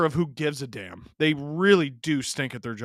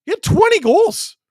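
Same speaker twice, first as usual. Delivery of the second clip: loud, high burst of insistence; emphatic exclamation; 14 semitones higher, 10 dB louder than usual. Real, not acted. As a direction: shout the stat to prove your point. Arguing the player is capable.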